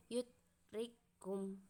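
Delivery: "yudrikum" sounded out slowly in parts; example reading. Shown as a demonstration. Presenter reads an idgham example, slow measured "yudrikum". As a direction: read "yudrikum" slowly, syllable by syllable. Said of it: "membacakan salah satu contohnya".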